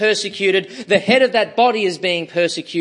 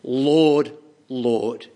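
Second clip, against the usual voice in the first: despairing plea; 5 semitones lower than usual. Acted. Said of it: "with despair and passion will say".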